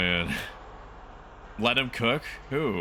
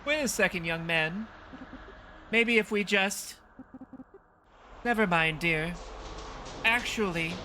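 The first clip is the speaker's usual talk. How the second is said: put-on high-pitched old lady, hesitant then suggestive; coy old woman; 8 semitones higher than usual. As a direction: make a shy proposition as an elderly lady.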